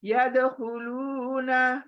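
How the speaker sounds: slow drawn-out Arabic recitation of यदखुलूना; Quran recitation. Shown as a demonstration. Teacher recites यदखुलूना slowly for the student. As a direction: stretch the लू in यदखुलूना. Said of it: "दो आवाजें निकालनी है".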